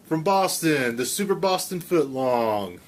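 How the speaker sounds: Casey Kasem. Acted. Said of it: "That's my Casey Kasem".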